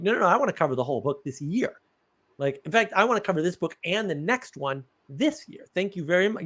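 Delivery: retold indignant insistence, kept fairly contained; mildly mad protest. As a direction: lightly re-enact a miffed student's demand. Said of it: "I was really mad".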